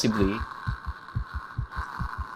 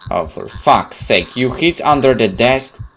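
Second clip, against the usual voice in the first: exasperated rant; 6 dB louder, slower than usual. Real, not acted. Annoyed at the game's choice.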